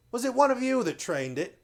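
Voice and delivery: high, loud mocking question; mocking slaver. A narrator's reading. Slave dealer taunting the captives about the mouse, high jeering. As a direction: sneer it up high like a jeering trader.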